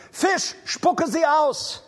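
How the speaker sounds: high, slow, drawn-out command to the fish; commanding decree. Acted. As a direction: proclaim it like a divine order.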